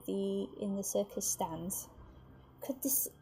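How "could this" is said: breathless whisper of a nervous crowd; hushed crowd whisper. Acted. Circus crowd murmuring in suspense, whispered.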